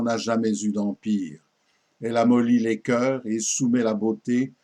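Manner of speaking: formal verse declamation, pauses at line ends; poem recitation. Acted. Reciting a king's homage to the poet Ronsard, poem recitation. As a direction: declaim each line with deliberate phrasing.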